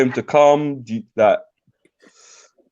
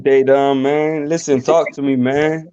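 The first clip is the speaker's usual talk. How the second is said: put-on American accent; slower than usual. British streamer trying his friend's American accent. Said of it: "Do my accent".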